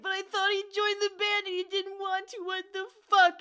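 hammed-up flustered complaint; flustered boy. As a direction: sputter like a rejected teen. Voicing upset character again.

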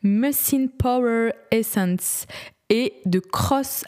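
slowly spelling out Mucin Power Essence; slow careful reading. Shown as a demonstration. Vlogger carefully reading a long English product name. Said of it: "c'est en anglais".

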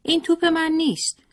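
put-on high wailing little boy, stress on توپ; a child howling in a fit over the ball, hitting توپ hard; crying child tantrum. A narrator's reading. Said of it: "قشقرق راه انداخت و گریه سر داد". (قشقرق کودکانه با صدای زیر و گریان)

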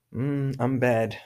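a touch of feeling bad; mock feeling unwell. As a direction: sound a little sick and down. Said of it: "não tô me sentindo bem".

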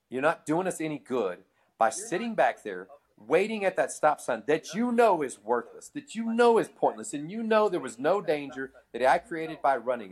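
mild lecture, stressing the key words; retold scolding. Driver telling off the cop who ticketed him, mild scolding. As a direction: scold him without getting mad. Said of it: "I'm basically scolding him".

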